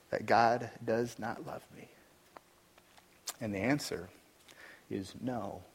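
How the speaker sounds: soft, fading preaching; hushed sermon. Acted. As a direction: let it sink down to almost nothing. Hushed passage on death.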